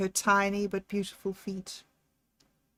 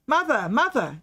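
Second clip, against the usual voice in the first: shouting; 4 semitones higher than usual. Acted. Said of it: "Jack shouted".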